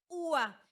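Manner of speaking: ua pulled apart as "Ú-a", stretched and stressed; hiatus ending. Shown as a demonstration. Teacher showing the word endings, drawn-out hiatus. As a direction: lengthen the u in ua before the a. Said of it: "van a terminar en ia".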